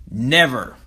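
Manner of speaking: loud, emphatic refusal; sudden loud dramatic declaration. Shown as a demonstration. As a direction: raise your voice to show you truly mean it. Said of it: "switch to loud".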